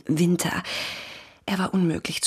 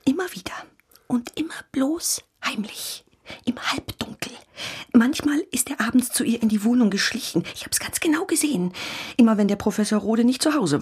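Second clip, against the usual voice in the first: conspiratorial whisper; 5 semitones higher than usual. Acted. Neighbour gossips secretly to police.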